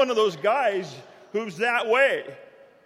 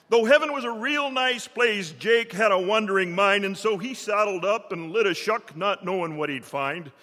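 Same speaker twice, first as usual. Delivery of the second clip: lower, rhythmic poem recitation; cowboy poetry; 3 semitones lower than usual. Acted.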